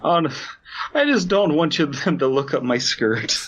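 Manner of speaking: prim complaint about skirt; high hammed-up damsel. Joining the Ashley parody.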